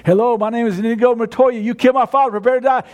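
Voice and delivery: full voice, firm and determined. Shown as a demonstration. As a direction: deliver the vow in full strength. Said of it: "He just gets louder and louder".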